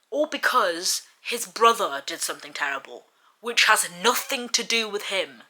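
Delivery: heated, incredulous telling-off; indignant. Real, not acted. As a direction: tell off a character in outrage. Indignant rant at a book character.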